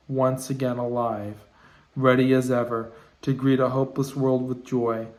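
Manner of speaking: measured recital with deliberate phrase breaks; poem reading. Acted. Poet reading a new poem aloud to viewers, measured recital. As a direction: read it as verse, setting each phrase apart.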